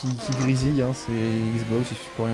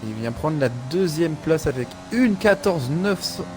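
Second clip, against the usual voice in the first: motorsport commentator; 3 semitones higher than usual. Acted. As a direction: lively race play-by-play. Live race play-by-play.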